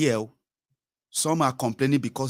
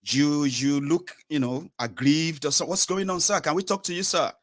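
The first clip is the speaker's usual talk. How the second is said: polite reporter; 5 semitones higher than usual. Retold or imitated.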